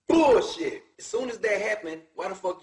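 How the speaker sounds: sharp, high, loud scoff of disbelief; angry outburst. Real, not acted. A rapper rejecting the robbery story, loud angry scoff. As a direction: spit it out like you don't buy a word.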